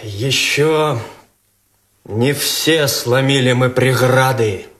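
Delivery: solemn verse recital; poem recital. Acted. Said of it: "можно я стихами?".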